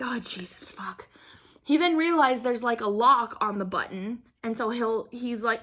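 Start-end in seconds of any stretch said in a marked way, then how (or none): 0.0-1.1 whispered curse under the breath; hushed, exasperated aside; muttered dismay. Retold or imitated. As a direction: swear very softly to yourself.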